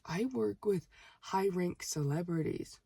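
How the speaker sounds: slow, emphatic, word by word; mock-serious name-dropping, drawn out; earnest boasting. Customer claiming he works with celebrities, earnest boasting. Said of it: "No, seriously".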